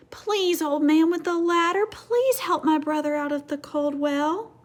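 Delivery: put-on pleading child. Frightened child begging.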